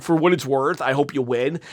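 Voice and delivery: a soft, mocking impression of Cody's line. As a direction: say it in a small, sarcastic voice. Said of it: "now Cody's like".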